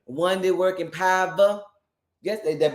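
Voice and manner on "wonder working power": "power" said as pah-buh; old saints' power. Retold or imitated. Host defending the old saints, "power" as pah-buh. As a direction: end on "power" as pah-buh, church style. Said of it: "that's what they said".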